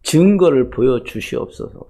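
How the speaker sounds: a prayer that fades from a lifted call to a hushed plea; the pastor shows his congregation the prayer he prays; quoted prayer. Retold or imitated. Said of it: "그런 기도를 합니다".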